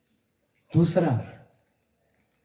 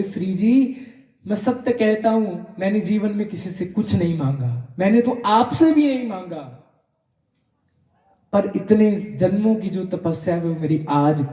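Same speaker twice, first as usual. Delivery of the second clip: tearful; 3 semitones higher than usual. Retold or imitated. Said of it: "बाबा इतनी जोर से रोए".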